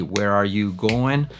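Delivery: slow, every word of "Where are you going" kept; full form. Shown as a demonstration. Teacher alternating forms, slow full form. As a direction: say "are" fully, slowly. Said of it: "lo ponemos a alternar así".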